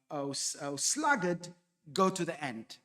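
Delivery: a hint of a scolding father; understated reproach to a lazy son; mild rebuke. Shown as a demonstration. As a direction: mildly rebuke the sluggard. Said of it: "The vocative there, the address".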